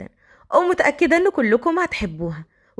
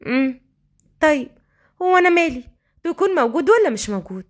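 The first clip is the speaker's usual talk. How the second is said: slightly raised, put-on nonchalance; feigned indifference; 3 semitones higher than usual. Girl to departing thug, feigned indifference. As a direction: act as though you don't care. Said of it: "بلا مبالاة مصطنعة".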